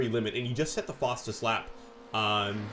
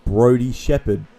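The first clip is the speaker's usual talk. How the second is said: loud announcing; 11 dB louder, slower than usual. Real, not acted. Co-commentator teasing with loud announcement.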